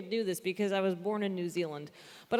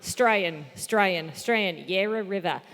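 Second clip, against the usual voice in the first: lower, repeated Australian warm-up phrase; pseudo-Australian accent; 4 semitones lower, much slower than usual. Shown as a demonstration. Comedian repeating a cue line to get into Australian accent. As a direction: rev up a put-on Australian accent. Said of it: "pseudo-Australian accent".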